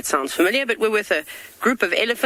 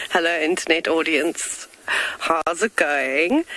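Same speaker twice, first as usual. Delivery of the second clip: posh south african; slower than usual. Pretend. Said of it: "us fellow South Africans like to say".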